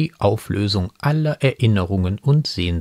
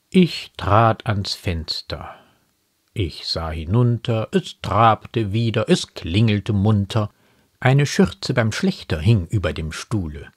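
slow, measured verse with pauses; unhurried poetic delivery; poem recitation; slower than usual. Acted. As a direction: let each line of the poem stand alone.

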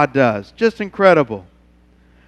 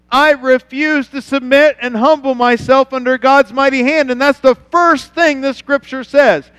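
raised pleading preacher voice; preaching; 3 semitones higher than usual. Real, not acted. Pastor urging the church, raised preaching voice. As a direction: drive the point home to the church.

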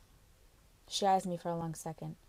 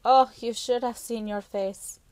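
slow, louder, laughing Carla voice; amused teasing; 4 semitones higher, 7 dB louder than usual. Acted. Carla laughing at the girl's caught face, slow and louder. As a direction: savour her embarrassment.

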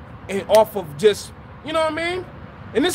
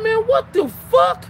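startled shout; 11 semitones higher than usual. Retold or imitated. Confronting drunk intruder.

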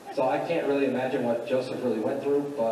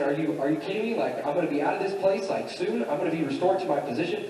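higher, eager imitation of an excited prisoner; 3 semitones higher, faster than usual. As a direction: gush as if hearing wonderful news. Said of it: "cupbearer being excited and saying".

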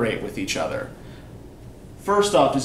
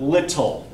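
"little" with LIT louder than the rest; stress on first syllable. Shown as a demonstration. Teacher demonstrating syllable stress to a class, "little" stressed on LIT. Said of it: "Which syllable do I say more loudly?".

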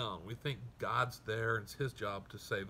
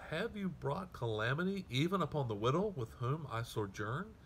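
desperate cry; 5 semitones higher than usual. Retold or imitated. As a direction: drag out O Lord my God in anguish. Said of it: "Do you hear the desperation?".

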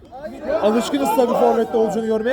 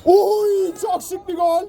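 excited exclamation; 5 semitones higher, slower than usual. Real, not acted. Goal reaction.

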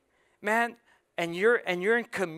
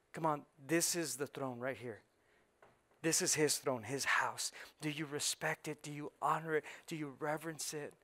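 much softer, hushed appeal; quiet searching questions to the church; soft intimate preaching; 2 semitones lower, 6 dB quieter than usual. Acted. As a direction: draw them in quietly. Preacher drops to intimate softness.

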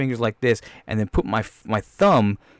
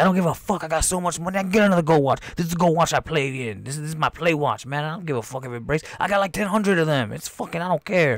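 mildly cocky, higher boast; careless bragging; 5 semitones higher than usual. Acted. Man showing off his gold watch, careless bragging. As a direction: brag as if money means nothing.

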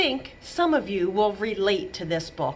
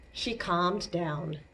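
hushed calm; 3 semitones lower, 6 dB quieter, much slower than usual. Acted. Tantrum ends, voice drops.

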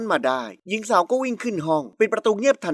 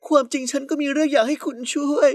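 high, fragile request after crying; tearful plea; 6 semitones higher than usual. A narrator's reading. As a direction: ask for help as if still tearful. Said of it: "ด้วยใบหน้าที่ยังเลอะคราบน้ำตา". (ขอร้องเสียงเครือ)

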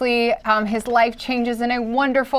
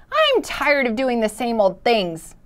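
grumbled; 2 semitones higher than usual. Acted. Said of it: "it grumbled".

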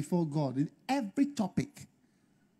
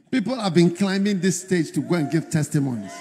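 loud, emphatic plea to God; impatient mock complaint; 6 dB louder than usual. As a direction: protest as someone tired of waiting. Voices a waiting sister's complaint.

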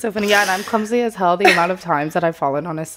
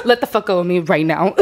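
half-laughing aggressive order; mock aggressive; 3 semitones lower than usual. Dancer to customer holding her leg, mock aggressive. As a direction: demand it firmly, amused underneath. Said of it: "I didn't mean to be aggressive".

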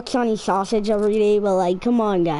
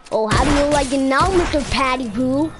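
gloating taunt; 4 semitones higher, 3 dB louder than usual. Acted. Taunting killed opponent.

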